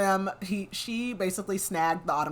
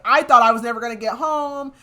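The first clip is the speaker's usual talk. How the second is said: mock pissed retort; 6 semitones higher, 10 dB louder than usual. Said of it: "pissed at him".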